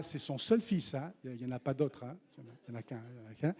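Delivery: a hint of a nervous onlooker whispering; hesitant disciple. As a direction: mumble like a timid disciple.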